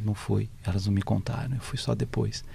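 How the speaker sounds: quiet grief; sad hushed. Retold or imitated. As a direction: son who missed his mother's wake, softly sad. Cícero on missing mother's funeral.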